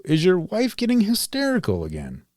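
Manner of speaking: bright, peppy vintage ad read; chipper 1950s ad. Retold or imitated. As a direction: sell it like an old radio ad. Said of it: "here's a ad from nineteen fifty-two".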